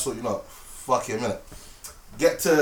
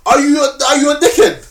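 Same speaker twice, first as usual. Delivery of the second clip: raised, louder mock telling-off; angry retold rant; 5 semitones higher, 3 dB louder than usual. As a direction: rant at him like you did then. Retold confronting the other driver.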